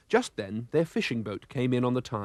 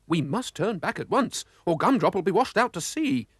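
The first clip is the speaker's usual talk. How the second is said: urgent cry; 6 semitones higher than usual. Acted. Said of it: "cried Mister Oldcastle".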